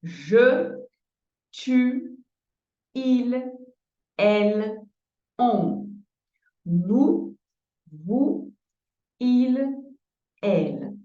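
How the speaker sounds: the same pronouns with shorter pauses, brisker; brisk second read of the list. Shown as a demonstration. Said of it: "Je vais répéter".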